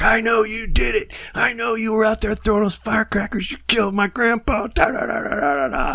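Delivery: hammed-up grief, pointing the finger; mock accusation. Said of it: "And I was like".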